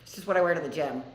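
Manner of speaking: quick, amused reply through a laugh; laughing retort. Retold or imitated. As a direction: brush it off with a laugh, fast. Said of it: "And I'm like".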